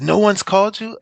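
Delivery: high-pitched imitation of an incredulous question; retold surprise. Coach asking his player about the expected call, retold surprise. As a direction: imitate someone puzzled, pitch jumping up.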